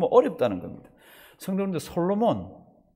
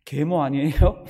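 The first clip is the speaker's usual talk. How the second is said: slower, louder mock accusation; red-faced baby yell; 6 dB louder, slower than usual. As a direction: ham up a furious baby. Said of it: "얼굴을 붉어가지고 할 때는".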